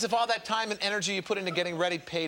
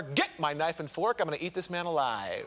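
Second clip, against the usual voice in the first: mock-hungry quote; 5 semitones lower than usual. Host offers the contestant a quote to match, mock-hungry. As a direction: drop low and savour it for laughs.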